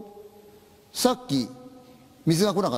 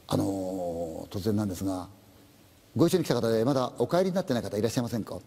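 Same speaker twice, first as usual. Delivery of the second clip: hesitant policeman; 5 semitones lower than usual. Acted. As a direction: tread carefully, you bring bad news. Policeman asks about missing friend.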